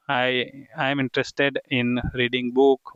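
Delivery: slow model sentences; slow dictation. Shown as a demonstration. Teacher modelling names for students, slow and deliberate. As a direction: spell it out slowly for beginners.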